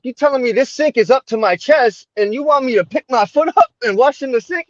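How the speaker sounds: can't believe what he's being asked; incredulous. Retold or imitated. New convert balking at lifting his foot into a chest-high sink, high and incredulous. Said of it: "I'm like".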